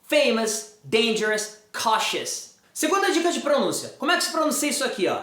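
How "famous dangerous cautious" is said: "Famous, dangerous, cautious" each ending in short "uhs"; careful word list, "Famous, dangerous, cautious" with -uhs; correct -us endings. Shown as a demonstration. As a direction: model "Famous, dangerous, cautious" with reduced last vowels. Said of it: "vai ser pronunciada como us".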